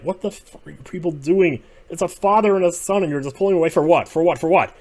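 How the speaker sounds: high, loud, indignant yelling at the Others; outraged yelling. Retold or imitated. Fan yelling at the Others for taking a son from his father, outraged. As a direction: shout it like you can't believe what they're doing.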